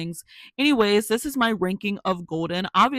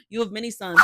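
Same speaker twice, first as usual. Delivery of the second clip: louder emphatic; 3 semitones higher, 7 dB louder, faster than usual. Real, not acted. Repeats louder.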